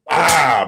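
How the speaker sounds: sudden vocal smack sound; imitated smack. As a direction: burst it out like a slap landing.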